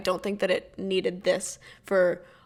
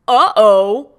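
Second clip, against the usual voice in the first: loud rising uh-oh, mock alarm; mock ominous uh-oh; 2 semitones lower, 9 dB louder than usual. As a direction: sing out a teasing uh-oh. Narrator's mock ominous interjection.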